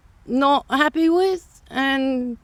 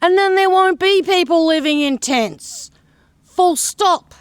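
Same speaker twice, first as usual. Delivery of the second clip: retold telling-off; 2 semitones higher than usual. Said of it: "I said".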